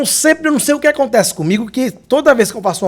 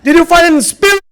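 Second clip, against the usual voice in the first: a mock-serious officer ribbing him; teasing officer question; 7 semitones higher, 4 dB louder than usual. Officer meeting him again asks about bears, teasing. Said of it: "E ele olhou pra mim".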